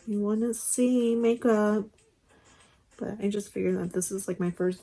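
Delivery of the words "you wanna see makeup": drawn-out, louder okay, as if fed up; mock impatient viewer. Viewers tired of all her talking, mock impatience. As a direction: imitate an impatient audience. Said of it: "you guys are probably like".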